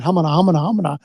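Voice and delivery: lightly done sputtering humana humana; a hint of Ralph Cramden flustered stammer. Host retells his flustered Ralph Cramden reaction, lightly sputtered. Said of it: "I did the Ralph Cramden".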